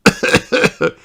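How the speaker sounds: sneezing high pony voice; sick little pony, sneezing; sniffly pony voice. Acted. Pedro sneezing.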